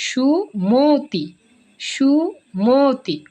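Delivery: "সুমতি" as shu... mo-ti, slowly split, with a long o; o-sound pronunciation. Shown as a demonstration. Teacher demonstrating "সুমতি" slowly, middle vowel as o. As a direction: stretch "সুমতি" slowly, rounding মো. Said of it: "এই মটা ও এর মতো উচ্চারণ হবে".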